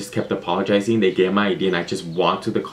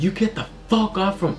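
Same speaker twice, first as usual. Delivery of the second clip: high-pitched, slowed furious mom impression; mock angry mom; 11 semitones higher than usual. Mom on phone to daughter out all night, high mock yell. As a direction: play mom losing it on the phone. Mom ordering her home.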